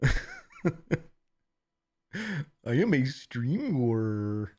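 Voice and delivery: very slow drawn-out announcer line; mock Markiplier. Streamer ends the Markiplier bit, very slow. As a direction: drag it out slowly, mock grand. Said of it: "my Bizarro Markiplier".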